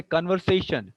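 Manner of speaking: converSAtion, weight on the third syllable; stress on sation. Shown as a demonstration. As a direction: lean on sa in conversation. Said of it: "stress is on session".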